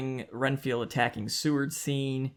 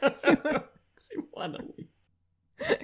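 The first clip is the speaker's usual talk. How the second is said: mock drawl; 3 dB louder, much slower than usual. Mocking the zookeeper's line.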